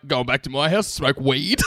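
smug little boast with a laugh; proud. Retold or imitated. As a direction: say it like you're proud of it, half laughing. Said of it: "You sound so proud of yourself".

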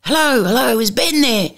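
a lightly voiced small faraway caller; mock a tiny voice on a bad line; little distant voice. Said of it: "this little voice at the end going".

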